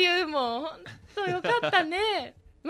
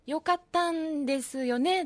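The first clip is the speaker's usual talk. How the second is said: put-on Korean accent; slower than usual. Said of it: "チャンミンがね".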